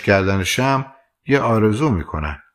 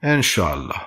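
heartfelt; 3 semitones lower than usual. Acted. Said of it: "از ته دلش گفت".

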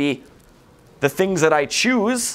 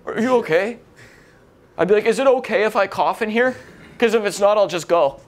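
anxious, overpolite; 4 semitones higher than usual. Retold or imitated.

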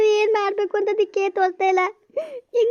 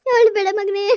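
pleading comfort; 4 dB louder, slower than usual. Acted. Mother comforts crying child.

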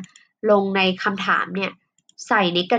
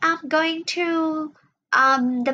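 reading answer line; 8 semitones higher, much slower than usual. Acted.

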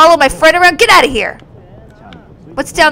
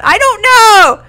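confused cry; 8 semitones higher, 4 dB louder, slower than usual. Real, not acted. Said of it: "This is so confusing!".

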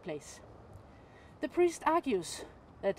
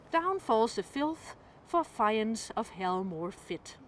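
slow, firm defiant verse; priest defying Satan; slower than usual. Acted. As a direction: stand firm against the devil. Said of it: "Satan thus he said".

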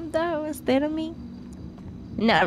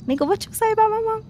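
a bit higher tough-guy challenge; mock threat; 5 semitones higher than usual. Shown as a demonstration. Friend's last try at the tough act, mock threat. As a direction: try to sound scary. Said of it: "go, go, go, go".

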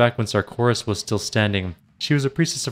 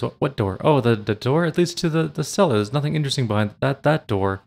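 stuttering nervously; 3 semitones higher than usual. Acted. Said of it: "he falters and stutters over his words".

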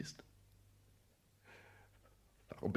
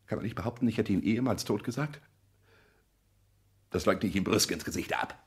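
rising defiance; 2 semitones higher, 6 dB louder than usual. Acted. Working himself into defiance.

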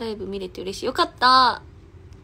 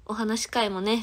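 ordinary talk

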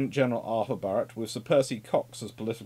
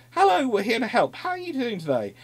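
"Hello" much higher, bright mock-friendly greeting; a hammed-up chirpy hello; cheery naval party; 10 semitones higher, 3 dB louder than usual. Sailors greeting the next village, higher and chirpier. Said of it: "appear in another village and go".

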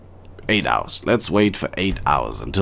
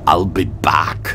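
put-on breathy whispered Austrian accent; 4 semitones lower, 3 dB louder, slower than usual. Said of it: "It's very hard to do an Austrian accent".

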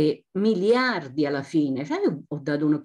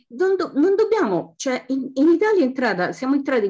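emphatic italian speech; 7 semitones higher than usual. Real, not acted. Heated speech at a public meeting.

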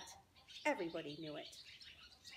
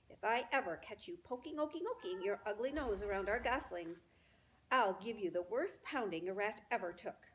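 threatening gander; 3 dB louder than usual. Acted.

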